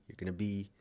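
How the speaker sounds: burp breaking into the words. Real, not acted. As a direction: let a small burp cut the line. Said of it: "I just burped".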